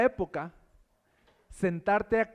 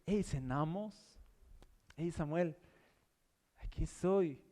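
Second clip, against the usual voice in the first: casual friendly God; 6 dB quieter, slower than usual. Pretend. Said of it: "Es más de".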